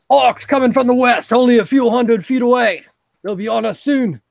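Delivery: high, loud urgent call; breathless lookout shouting the alarm; yelled warning. Acted. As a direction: shout the news from afar. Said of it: "yelling out loud".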